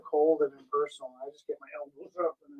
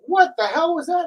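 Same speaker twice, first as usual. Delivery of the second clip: higher, louder startled question; mock alarm at the noise; retold shock; 11 semitones higher, 8 dB louder than usual. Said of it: "And they're like".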